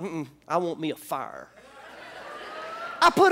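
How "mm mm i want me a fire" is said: mock inner voice. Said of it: "I thought".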